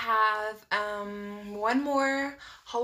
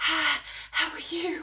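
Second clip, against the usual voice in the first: breathy, high-pitched voice with lots of air; 6 semitones higher than usual. Showing how breathy an infection leaves the voice: breathy Marilyn Monroe voice. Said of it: "like Marilyn Monroe".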